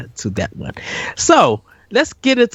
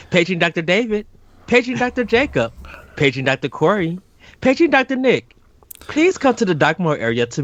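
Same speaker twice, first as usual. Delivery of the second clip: hospital PA announcement; 3 semitones higher than usual. Pretend. Mock hospital paging announcement.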